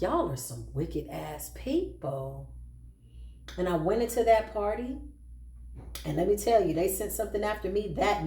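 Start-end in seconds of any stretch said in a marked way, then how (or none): 0.0-2.5 low muttered retort. Retold or imitated. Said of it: "I was like".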